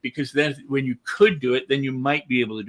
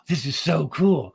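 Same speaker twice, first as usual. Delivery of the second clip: mock wow; slower than usual. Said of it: "they don't look like".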